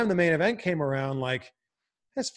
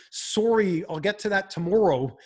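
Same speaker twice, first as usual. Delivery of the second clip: rounded Canadian O's, a little higher; Canadian accent; 4 semitones higher, 3 dB louder than usual. Retold or imitated. Host showing what Americans haven't heard, Canadian accent. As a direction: show off Canadian O's in sorry and tomorrow. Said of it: "when you haven't heard".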